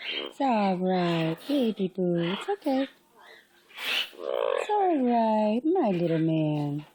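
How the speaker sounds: soothing. Real, not acted. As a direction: settle the bird gently. Soothing the bird.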